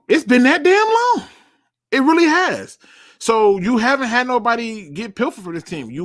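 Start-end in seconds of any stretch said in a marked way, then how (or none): 0.1-2.8 exasperated disbelief. Real, not acted. Exasperated about a long drought.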